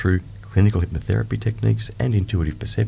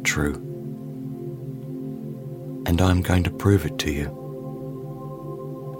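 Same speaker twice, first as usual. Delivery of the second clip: guided meditation; slower than usual. Acted. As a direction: ease the listener into calm.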